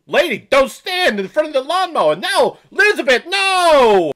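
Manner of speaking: hammed-up Walken-Jersey accent, panicking; Walken-Jersey accent rising to a shout; mock Walken-Jersey yell. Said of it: "like a discount Christopher Walken".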